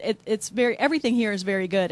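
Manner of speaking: talking around a bite; chewing while talking. Real, not acted. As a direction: mouth full of pastry. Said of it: "I have to eat while she talks".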